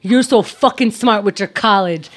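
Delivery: put-on touch of tough New York accent. Confronting whoever was douchey to her brothers, New York accent. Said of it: "how much my New York accent comes out".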